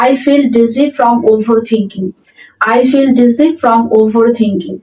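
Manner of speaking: very slow, word by word dictation; slow model sentence. Shown as a demonstration. Teacher reading the example sentence aloud to students, very slow and clear. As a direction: spell it out slowly for learners. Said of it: "dizzy মানে মাথা ঘোরা".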